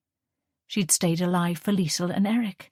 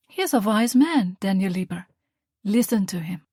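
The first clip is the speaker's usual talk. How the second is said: earnest mother; 2 semitones higher, 3 dB louder than usual. Acted. Mother reflecting on the war, earnest. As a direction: speak from hard-won conviction.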